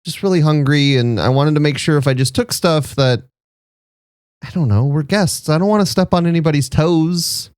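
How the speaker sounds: a tiny, nervous frog asking politely; small shy frog guest, hungry but apologetic; Sal the small frog. Acted. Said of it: "and then be like".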